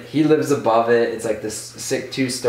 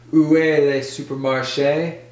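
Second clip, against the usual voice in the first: imitated smooth French pickup, slightly raised; trying to be suave; 4 semitones higher than usual. Seb asking a girl on the curb, mock suave. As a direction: put on a would-be charmer's French. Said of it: "trying to be suave".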